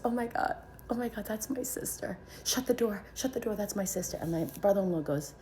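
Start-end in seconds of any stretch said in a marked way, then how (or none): 0.0-4.2 high-pitched retold panic; panicked. Sister hearing screams down the hospital hall, panicked. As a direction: imitate an alarmed sister, urgent and high.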